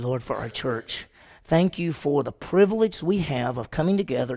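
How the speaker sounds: earnest, hushed opening prayer. Acted. Teacher opening Sunday school, leading a heartfelt prayer.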